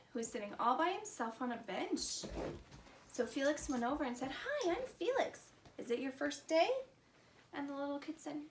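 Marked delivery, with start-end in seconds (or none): 4.3-6.7 friendly greeting. Acted. Felix greets lonely kid.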